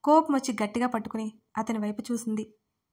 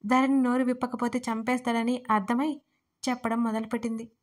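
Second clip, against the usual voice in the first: usual speaking voice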